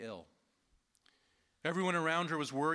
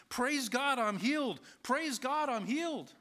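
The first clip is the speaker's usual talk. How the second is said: high, louder, acted hallelujah cry; joyful shouting; 10 semitones higher, 4 dB louder than usual. Healed woman running down the hospital hallway, joyful shouting. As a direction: shout it out in high-pitched jubilation.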